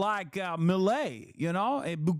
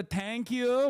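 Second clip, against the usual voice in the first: put-on "thank you" with a light Persian accent, higher; 5 semitones higher than usual. A quick Persian-accented "thank you" describing the host. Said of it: "he's got a little bit of the".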